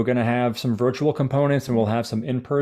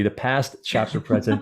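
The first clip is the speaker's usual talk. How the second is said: slow, careful wording; 3 semitones lower than usual. Real, not acted. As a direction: linger on PAST before "chapter president". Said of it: "I gotta get the way to say it slowly".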